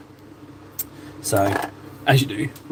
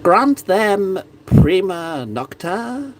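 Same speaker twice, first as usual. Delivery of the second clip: very slow, higher haughty royal decree; English king impression; 6 semitones higher, much slower than usual. Braveheart king quote, slow haughty royal decree. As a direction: savour each word like a cruel king. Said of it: "excellent those impressions are".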